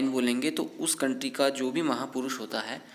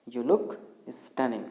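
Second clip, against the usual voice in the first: very slow, word by word, spelled out for learners; slow teaching read; much slower than usual. Shown as a demonstration. English teacher dictates the sentence slowly to learners. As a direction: stretch each word like dictation. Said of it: "क्या बोलेंगे".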